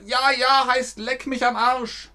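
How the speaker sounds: lightly imitating a cheeky German saying; mock cheeky retort. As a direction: toss it off cheekily. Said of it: "Wenn die Leute heutzutage in Deutschland sagen".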